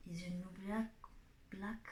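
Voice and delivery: English phrase in a thick French accent. Real, not acted. Vlogger joking in French-accented English about the colour. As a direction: say it in a French accent, lightly mocking yourself. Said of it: "avec mon accent toujours pourri".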